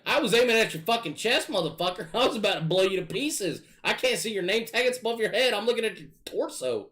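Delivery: high, loud exasperated yelling with laughs mixed in; laughing angry shout. Retold or imitated. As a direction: shout back at the friend who walked into the shotgun. Shouting back at teammate, laughing.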